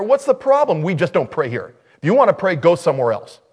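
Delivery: loud, high mock scolding; acted exasperation in loud bursts; imitated objection. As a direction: play a church member turning people away. Retold church objector turning them away.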